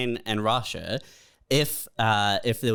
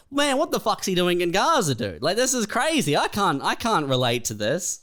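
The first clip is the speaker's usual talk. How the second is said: higher mock shock; baffled reader; mock disbelief; 6 semitones higher than usual. Reader baffled by Gaza headline, mock disbelief. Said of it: "and you're like".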